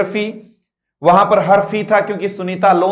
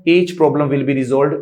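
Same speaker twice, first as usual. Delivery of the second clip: slow emphatic promise; 5 semitones lower, much slower than usual. Acted. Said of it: "motivational slogan".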